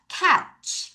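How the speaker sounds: "Catch" with only a trace of T; barely-sounded T. Shown as a demonstration. Teacher showing students the spelling's silent-ish T, "Catch" with faint T. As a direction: model "Catch", the T almost unheard before ch. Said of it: "T 소리가 아주 살짝 나고 거의 안 나요".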